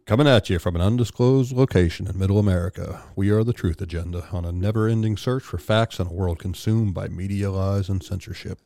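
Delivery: announcer-style intro read; dramatic podcast opener. Shown as a demonstration. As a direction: read it like a radio show opener. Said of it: "Let me do that again".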